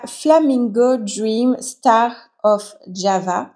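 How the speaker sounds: slow, careful stab at an English accent on "Flamingo Dream Star of Java"; French speaker's playful, imperfect English accent. Real, not acted. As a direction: sound out the plant name in a self-mocking English accent. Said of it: "avec mon magnifique accent anglais".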